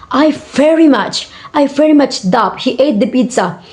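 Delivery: VERY MUCH lifted in pitch for intensity; emphatic stress on VERY MUCH. Shown as a demonstration. Teacher showing emphatic stress, very much stressed for intensity. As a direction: lean hard on very much. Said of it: "Very much carries empathic stress".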